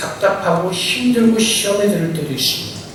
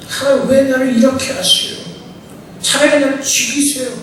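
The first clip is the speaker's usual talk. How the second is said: higher, sulky believer's moan; whiny complaint; 6 semitones higher than usual.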